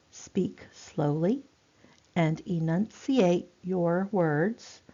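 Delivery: slowly, every word clearly separated; deliberate, over-articulated delivery; slow, enunciated speech. Shown as a demonstration. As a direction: speak carefully to someone hard of hearing. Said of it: "this is how we speak".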